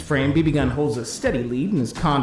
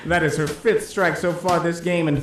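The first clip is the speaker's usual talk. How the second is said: sportscaster play-by-play. Pretend. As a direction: call the strikes like a TV sports commentator. Live bowling play-by-play.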